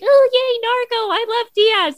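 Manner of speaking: high, gushing fake cheer; high-pitched mock delight; mock fan enthusiasm. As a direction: imitate a fickle fan suddenly in love. Mocks fickle fans' sudden enthusiasm.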